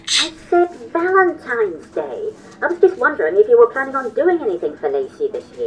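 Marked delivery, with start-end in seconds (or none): 0.0-2.3 slowed, patient repeat of Valentine's Day; slower repeat. Acted. Bert repeating himself to Charlie, who missed it, slowly. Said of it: "About what?".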